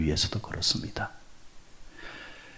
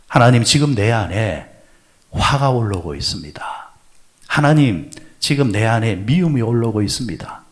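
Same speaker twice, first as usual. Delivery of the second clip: earnest prayer; 3 dB louder than usual. Shown as a demonstration. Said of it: "이렇게 기도하지 아니하면요".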